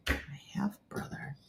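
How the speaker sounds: slow, whispered repeat; whispering to oneself. Real, not acted. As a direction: mull it over under your breath. Repeating confusing words to herself.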